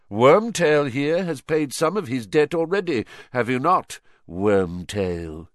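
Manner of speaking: imperious villain reckoning with servants; cold dark lord. Acted. Villain addresses cowering servants.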